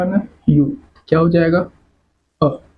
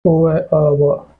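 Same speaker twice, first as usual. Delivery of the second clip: slow sounding out; 3 semitones lower, much slower than usual. Shown as a demonstration. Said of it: "letter तो same है".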